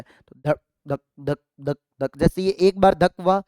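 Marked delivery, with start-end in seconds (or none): 0.0-2.2 heartbeat sound. Retold or imitated. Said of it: "जैसे हमारा दिल एक मिनट में बहत्तर बार धड़कता है".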